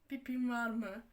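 "Pipin var mı?" drawn out slowly through a laugh; mocking laugh. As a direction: laugh at how dumb the question is while repeating "Pipin var mı?".

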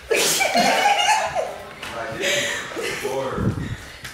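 silent, airy high laughter; breathless wheeze of laughing; wheezing laugh. Real, not acted. Wheezing laughter while pinning.

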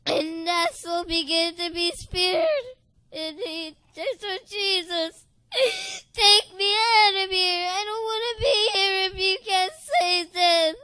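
tearful, breaking voice while telling the vision; crying testimony. Real, not acted. A woman testifying through tears about her vision. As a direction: weep through the words as you tell it.

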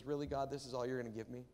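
quick, mildly put-out question; mock complaint. Imagined Jesus questions God's small gift, mock complaint. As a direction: grumble it as a pretend complaint. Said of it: "that sense of loss and complaint".

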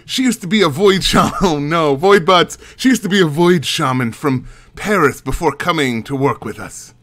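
a hint of a put-on accent for the guide; lightly voiced guide introducing Mary; character accent. The guide introducing the curator to the visitor in a light accent. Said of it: "switching back and forth between these, uh, accents".

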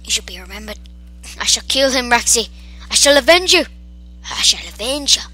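mock-heroic vow of vengeance; theatrical vow. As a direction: swear it dramatically over a fallen friend. Mock-solemn vow over dead dinosaur.

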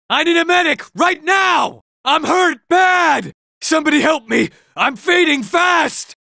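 desperate call for a medic; hurt plea. Acted. Wounded robot begs teammates for a medic, urgent and fading.

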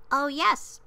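small high-pitched voice; piping little voice. A narrator's reading. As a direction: pipe up eagerly like someone tiny. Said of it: "piped the voice".

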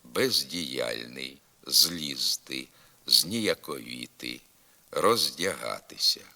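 unsoftened з in «бездіяльний», «злізти», «зніяковіти», «роздягатися»; hard prefix з. Shown as a demonstration. Teacher giving examples, hard з as in «бездіяльний». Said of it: "вимовляється здебільшого твердо".

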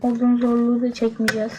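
flat, even robot-like delivery. Real, not acted. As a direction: talk like a monotone robot. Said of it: "Ben niye robot gibi konuşuyorum". (robot gibi tekdüze ses)

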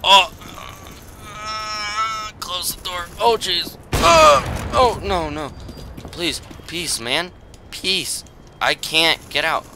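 high-pitched pleas, climbing to a yelp; mock panicked pleading. Player begging an enemy to spare them, mock panic.

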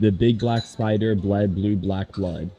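slow it down so he can follow; slow careful tongue twister. Shown as a demonstration. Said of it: "Do it again".

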